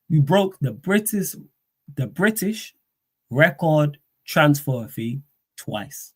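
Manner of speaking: tongue-tied, slow halting delivery; stumbling over words. Real, not acted. Streamer fumbling the phrase, slow and tongue-tied. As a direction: trip over the phrase British record transfer fee. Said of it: "I can't talk".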